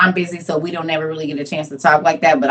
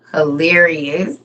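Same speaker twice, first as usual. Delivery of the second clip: drawn out; 3 semitones lower, much slower than usual. Real, not acted. Amused reaction.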